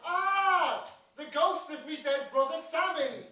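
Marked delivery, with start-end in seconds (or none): 0.0-0.8 loud, high startled "Ah!"; startled cry. Acted. Brother's ghost appears, a loud startled cry. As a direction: jump at the sight of a ghost.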